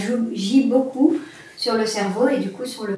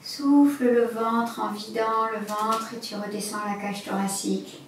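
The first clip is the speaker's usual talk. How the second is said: guided breathing; 4 dB quieter than usual. Acted.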